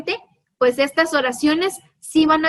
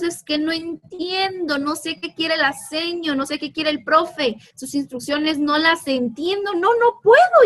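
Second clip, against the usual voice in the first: a pupil giving up in frustration; frustrated student; 2 semitones higher than usual. Retold or imitated. Imitating a frustrated student complaining about the teacher, whining. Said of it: "a veces decimos".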